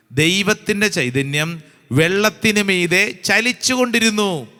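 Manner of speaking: slow, solemn recitation with stretched words; scripture reading. Acted. Preacher reading the creation verses to the congregation, slow and declamatory. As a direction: proclaim the verses phrase by phrase. Reads Genesis aloud.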